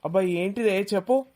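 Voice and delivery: whiny, impatient, with rising చెప్పు; impatient demand. Acted. Son answers his mother with an impatient, demanding whine. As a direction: demand it like a bored teenager. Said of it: "అడుగుడురా demand చేసినట్టు".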